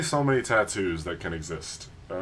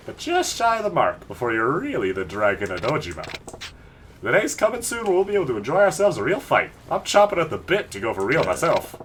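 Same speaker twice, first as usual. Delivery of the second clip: lightly higher wild yakuza voice; casual read of a gangster's cocky lines; voicing Majima; 5 semitones higher than usual. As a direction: play the crazed brawler teasing his rival.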